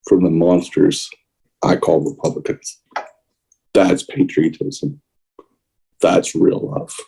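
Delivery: real feeling pulling the voice down to a hush; emotional. Real, not acted. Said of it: "Sorry for getting emotional".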